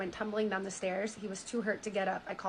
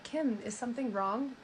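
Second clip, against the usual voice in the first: lightly put-on concern, a touch raised; fake concerned voice; 2 semitones higher than usual. Retelling his phone call to Kim, in lightly faked concern. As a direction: mildly imitate someone feigning concern. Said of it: "he puts on a fake voice".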